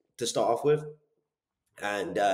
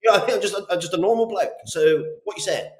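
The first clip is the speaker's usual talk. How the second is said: loud, much higher broad Bristol bloke; 11 semitones higher, 5 dB louder than usual. Retold or imitated. Salesman playing a normal Bristol bloke, loud Bristol accent. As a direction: lay the Bristol on thick, matey. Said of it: "someone who sounds like me from Bristol".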